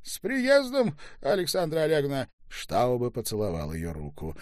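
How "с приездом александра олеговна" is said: high, bright loud welcome; cheerful greeting. Acted. Staube greets mother warmly. (радостное громкое приветствие, высоко)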